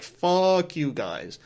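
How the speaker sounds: slow, dragged-out contempt; disgusted rant. Retold or imitated. Vlogger telling off Rotten Tomatoes, in slow disgusted contempt. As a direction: spell each insult out with scorn. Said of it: "I'm like".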